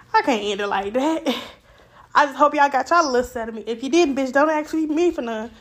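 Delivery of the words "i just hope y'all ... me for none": fast, breathless; talking fast. Real, not acted. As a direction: rush the words. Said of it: "Yes, I'm talking fast".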